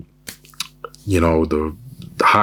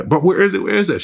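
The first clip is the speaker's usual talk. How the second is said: high, louder frantic questions; panicking girlfriend; 12 semitones higher, 4 dB louder than usual. Pretend. Girlfriend on the phone, lost and late, in hammed-up panic. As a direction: squeak it out in a fake panic. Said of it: "She's panicking".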